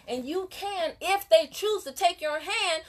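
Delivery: heated rant building to pissed off; getting heated. Real, not acted. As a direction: let the passion boil up into anger. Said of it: "Yeah, I'm getting mad".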